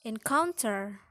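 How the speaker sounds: "encounter" with COUN stressed; middle-syllable stress. Shown as a demonstration. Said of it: "placed on the preceding syllable".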